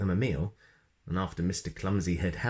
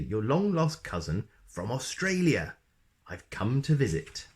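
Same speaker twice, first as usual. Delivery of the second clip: cheerfully; 3 semitones higher than usual. Acted. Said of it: "continued Mister Clumsy cheerfully".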